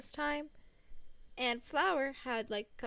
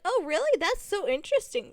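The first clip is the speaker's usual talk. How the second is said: higher, louder fake fascination; mock interest; 6 semitones higher, 6 dB louder than usual. Answering Ray Ray about new students, hammed-up interest. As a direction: feign being impressed. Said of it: "And I was like".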